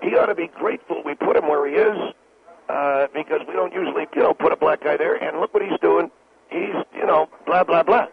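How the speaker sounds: a light take on an indignant talk-radio host, close to his own voice; lightly voiced pundit ranting about the president; a hint of a blustering radio host; Sean Hannity impression. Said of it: "the way Sean Hannity does when he says".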